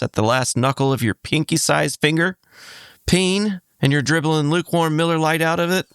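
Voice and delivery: deadpan sponsor read for a joke product; mock ad read. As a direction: sell it like a radio spot.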